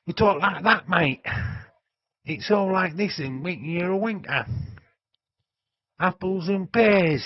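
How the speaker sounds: high, loud Cockney patter; exaggerated East End Cockney; Cockney accent. Shown as a demonstration. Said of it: "and that's the Cockney accent".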